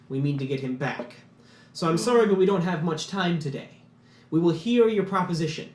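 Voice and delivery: stately gem mage introducing his council; grand gem mage. Acted. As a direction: announce yourselves like a proud magister. Lalos addresses the dwarves.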